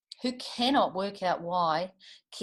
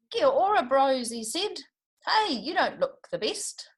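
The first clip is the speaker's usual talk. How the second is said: higher, louder bright hello; cheery greeting; 7 semitones higher, 5 dB louder than usual. A narrator's reading. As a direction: greet your mates with gusto. Tamatea greets, high.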